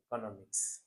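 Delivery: economics with a short O, ek-NOM-iks; mock wrong economics; wrong pronunciation. Shown as a demonstration. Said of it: "which is wrong".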